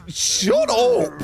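high, drawn-out cry of shut up; high-pitched exasperated outburst; exasperated yell. Real, not acted. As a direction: snap back in a high, stretched yell. Shouting back at the game.

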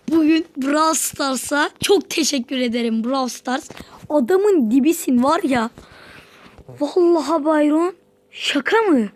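loud joyful celebration; loud thrilled celebration; excited. Real, not acted. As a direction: cheer at the game. Celebrating Byron unlock.

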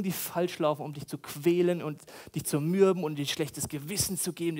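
ordinary delivery

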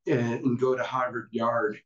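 lightly put-on Boston accent; a weak, half-hearted Boston accent. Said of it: "that was a terrible Boston accent".

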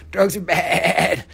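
slow, loud, with a long wobbly BAD; drawn-out mock warning. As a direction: stretch out "bad" like a hammed-up warning. Mock warning to kids, exaggerated repeat.

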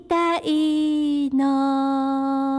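slow, drawn-out heroine line; dramatic reading. Acted. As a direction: read it like a tragic heroine. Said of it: "ひろみさん。".

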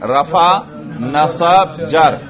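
emphatic word-by-word recitation; repetition drill. Shown as a demonstration. Teacher drills students on the three case names, repetition drill. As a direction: call out each term for students to repeat. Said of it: "ये हम तकरार कर रहे हैं".

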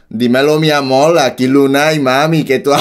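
attempting a Puerto Rican accent. Shown as a demonstration. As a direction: practise the Boricua accent, about to crack. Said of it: "decirlo en acento boricua".

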